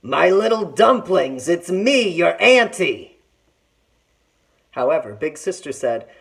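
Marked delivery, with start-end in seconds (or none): 0.0-3.2 slow, louder disguised tiger voice; a tiger faking sweetness at the door; tiger growling. A narrator's reading. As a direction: tiger pretending to be auntie. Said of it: "the tiger went to the house and growled".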